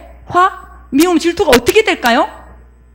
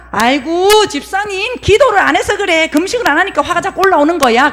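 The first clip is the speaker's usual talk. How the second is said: mock-concerned chiding, pitched a little up; advice-giving churchgoer; 4 semitones higher than usual. Believer telling the deacon to pray more, mock-concerned chiding. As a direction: draw out the sighing opener, then lightly chide. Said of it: "그러면서 자기가 했던 방법을 가지고".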